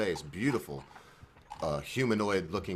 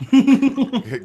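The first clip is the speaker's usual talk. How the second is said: loud greeting; 10 dB louder than usual. Real, not acted. Drunk host greeting guest.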